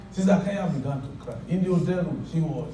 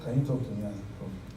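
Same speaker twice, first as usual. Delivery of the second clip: quoted crying; 5 semitones lower, 8 dB quieter than usual. Retold or imitated. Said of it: "She said".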